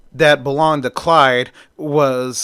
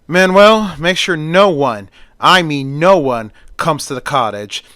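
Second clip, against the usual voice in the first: calling out; 4 dB louder than usual. Acted. Doctor calls his gardener Manuel, loud call. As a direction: shout across the yard for him.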